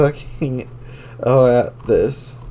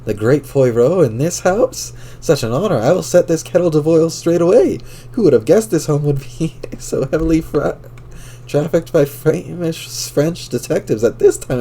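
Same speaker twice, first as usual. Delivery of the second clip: a lightly put-on French accent, eager and chirpy; 5 semitones higher than usual. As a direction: chirp it like a teen girl doing Poirot. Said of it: "clucking little pleasantries in his adorable French accent".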